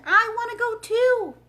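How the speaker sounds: desperate loud high cry; screaming. Acted. Dorothy cries after the departing balloon, screaming high and loud. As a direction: wail it like a child left behind. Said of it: "she screamed".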